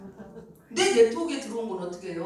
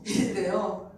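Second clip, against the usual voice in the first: normal talking voice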